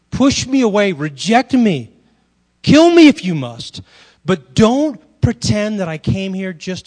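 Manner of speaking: loud, intense challenge in Jesus's voice; forceful preaching as Jesus. Acted. Jesus voiced pleading with people.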